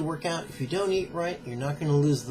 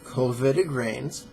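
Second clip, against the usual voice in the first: measured, emphatic reading from a book; formal read-aloud with deliberate pauses; book excerpt read-aloud. Acted. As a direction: read it out deliberately, stressing key words.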